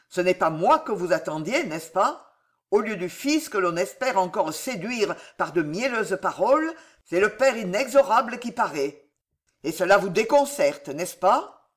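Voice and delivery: dure réplique du vieux connétable, plus forte; le père inexorable qui accuse; plus rude encore. Acted. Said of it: "avec plus de rudesse encore". (le connétable à Jeanne, avec une rudesse accrue)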